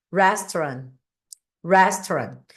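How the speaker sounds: "Restaurant" with a curled-tongue English R; R enrolado do inglês. Shown as a demonstration. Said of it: "a gente meio que enrola a língua". ("Restaurant" com o R inglês, língua enrolada)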